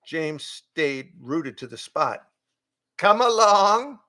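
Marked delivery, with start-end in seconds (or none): 3.0-4.0 higher, louder slow goat call; beckoning goat. A narrator's reading. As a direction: call him along as the goat.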